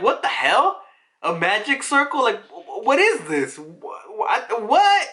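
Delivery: high, stammering mock disbelief; mind blown. Marines see a giant magic circle, mock astonishment. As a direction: build to a shrieked, baffled question. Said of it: "they're mind blown".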